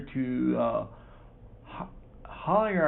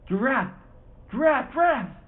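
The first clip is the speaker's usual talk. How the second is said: frustrated cursing; 11 semitones higher, 5 dB louder, slower than usual. Acted. Spinnaker torn, losing the race.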